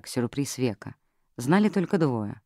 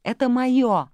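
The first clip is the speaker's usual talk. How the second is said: high, loud, grabbing cry; secretary shrieking to keep the jewels; possessive shriek; 10 semitones higher, 6 dB louder, much slower than usual. Acted. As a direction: shriek to claim it. Secretary screams over the casket.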